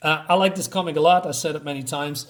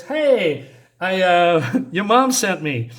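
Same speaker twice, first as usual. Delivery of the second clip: over-friendly greeting; 3 semitones higher, 4 dB louder, slower than usual. Acted. Lupe greets kids with a lie.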